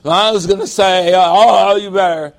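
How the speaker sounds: put-on a snitching child threatening to tell Mom; lightly voiced rules kid; tattletale kid. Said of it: "you always get the rules kid, who said".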